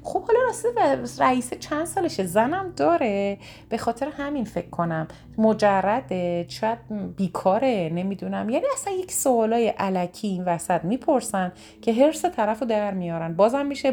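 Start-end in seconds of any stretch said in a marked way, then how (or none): 0.0-8.5 high, prying rapid-fire questions; nosy questioner. Retold or imitated. Nosy friend grills the upset caller, prying questions. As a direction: pester with idle curious questions. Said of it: "تمام سوالایی که میتونستن بپرسن".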